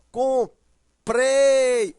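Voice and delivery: "comprei" with PREI loud, high and held; com-PREI, long booming final syllable; stress on PREI. Shown as a demonstration. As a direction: punch the last syllable of "comprei". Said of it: "a sílaba forte é o prei".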